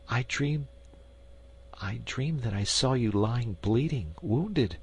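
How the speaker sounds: hushed queen confessing a dream; queen confiding softly. Acted.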